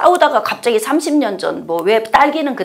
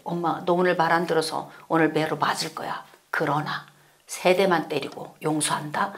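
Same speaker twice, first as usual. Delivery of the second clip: hushed mock threat; 6 semitones lower, 10 dB quieter than usual. Mother threatening child.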